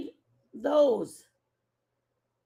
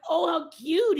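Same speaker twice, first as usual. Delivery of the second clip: excited aw; 5 semitones higher, 4 dB louder than usual. Retold or imitated. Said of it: "I got excited".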